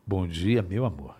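low, soft sultry greeting; seductive voice. Shown as a demonstration. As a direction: whisper it close and seductive. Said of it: "Você poderia deixar?".

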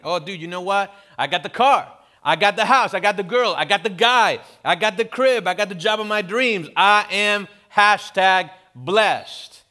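loud, high, cocky boaster; bragging show-off. Retold or imitated. Pastor mocks a humble-bragger, loud, high and cocky. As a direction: brag it all, every line bigger.

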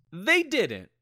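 dry deadpan documentary narrator. Pretend. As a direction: cut in as a flat voiceover. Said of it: "Narrator voice".

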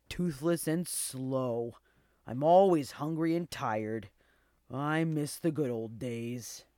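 put-on weary, mournful old dog voice; sighing old dog. A narrator's reading. Old dog missing better days, sighing. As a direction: lament like a worn-out old dog. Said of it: "sighed the old dog".

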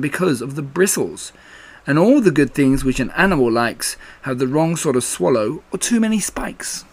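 lightly measured verse recitation; reciting a poem. A narrator's reading. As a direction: recite it as a homemade rhyme. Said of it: "he was thinking of a poem".

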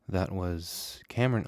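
talking with gum in mouth; words round a piece of gum; chewing gum. Real, not acted. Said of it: "let me spit out my gum".

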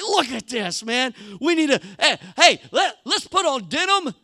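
rally everyone for a matching photo; eager tourists. Retold or imitated. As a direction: Israelites planning a family photo, playful excitement. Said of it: "they're like".

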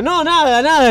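loud, high, flustered denial; hasty cover-up. Retold or imitated. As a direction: blurt it out to cover up the laughing. Hastily covering up his laughter.

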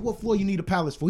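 high, quick interrogation; snapping. Retold or imitated. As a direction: grill him with a rapid question. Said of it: "I just snapped".

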